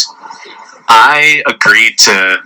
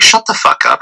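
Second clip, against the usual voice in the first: low, understated brush-off; retold dismissal; 5 semitones lower than usual. Man dismisses date's boyfriend claim, low retold dismissal. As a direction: drop the pitch, dismiss it without raising your voice. Redoes the reaction in lower voice.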